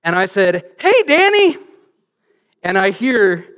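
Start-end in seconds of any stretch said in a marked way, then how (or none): 0.8-1.6 high, loud shout across the room; re-enacted full-voice yell. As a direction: holler a hello to a friend rows away. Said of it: "to yell at my friend Danny".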